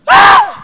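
sudden piercing yelp of pain; mock child scream of pain; child's scream. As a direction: scream like a kid getting hit. Kid screaming when hit.

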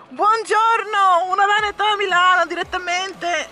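emphatic italian speech. Real, not acted. Excited greeting to viewers.

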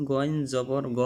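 "গ" thick and rounded, like go; full-mouthed Arabic ghain on "গ"; thick, heavy ghain. Shown as a demonstration. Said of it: "মোটা করে পড়তে হবে".

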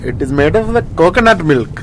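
light put-on Indian accent; Indian-accented explanation of a recipe. Shown as a demonstration. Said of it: "Indian accent".

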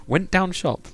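high-pitched northern English imitation; exaggerated Preston dialect; Preston accent. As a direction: put on a lilting Preston accent. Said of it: "You would say".

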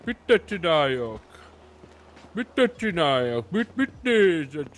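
slow stoned query; spaced out. Acted. Stoned, confused.

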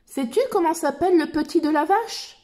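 put-on bright, high child explorer voice; Dora voice. Reading Dora's lines to little listeners, in a high cheerful voice. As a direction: lift the voice like Dora talking to kids.

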